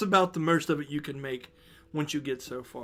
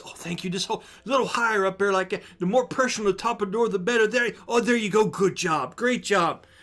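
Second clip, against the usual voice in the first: loud voice; 4 semitones higher, 6 dB louder than usual. Acted. Leah directs door holding.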